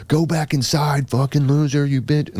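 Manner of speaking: high-pitched imitation of a heckler; drawn-out, high mock taunt; mock flipping out. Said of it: "it starts flipping out".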